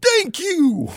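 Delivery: very high, tearful burst of relief; relieved thank you. Acted. Framed noble thanking the inquisitor, high and tearful. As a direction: gush it out almost crying. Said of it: "That's a very pleasant thank you".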